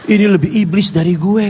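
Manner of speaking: a lightly voiced devil, in awe; the devil conceding defeat, lightly put on; devil's voice. Devil admits the shouting parent is worse, lightly voiced.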